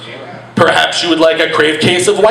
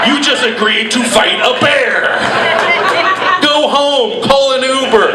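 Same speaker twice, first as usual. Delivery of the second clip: high scolding bartender; 10 semitones higher than usual. Retold or imitated. Bartender cutting off drunk.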